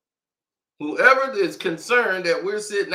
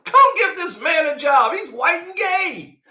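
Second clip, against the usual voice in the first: mock eager boss; 6 semitones higher, 4 dB louder than usual. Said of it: "They give you".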